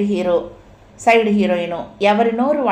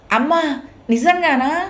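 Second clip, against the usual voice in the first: tearful disbelief; 8 semitones higher than usual. Acted. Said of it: "వలవల ఏడవసాగింది".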